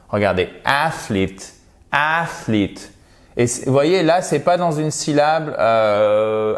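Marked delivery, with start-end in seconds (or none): 0.6-2.9 athlete with the first E as a long I; English athlete. Shown as a demonstration. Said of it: "prononcé comme un I long". (athlete, le E dit comme un I long)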